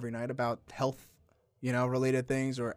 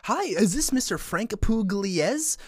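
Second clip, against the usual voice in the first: scripted phone rep; 7 semitones higher, 8 dB louder than usual. Retold or imitated. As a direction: drag out the scripted verification. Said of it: "It's a script, a script".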